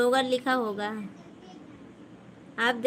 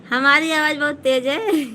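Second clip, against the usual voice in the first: louder, admitting she is too loud; 3 semitones higher, 6 dB louder than usual. Real, not acted. Streamer told she's loud, answering loudly. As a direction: say it loudly, half laughing at herself. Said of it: "चलो, अब धीमे बोलूँगी".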